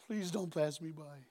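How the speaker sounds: preacher echoing the plea, soft and slow; quiet plea. Shown as a demonstration. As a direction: repeat it softly, tenderly. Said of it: "What a line".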